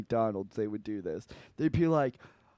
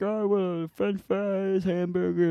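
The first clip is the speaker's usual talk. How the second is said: mimicked orders; 6 semitones higher than usual. Mimicking everyone giving their orders.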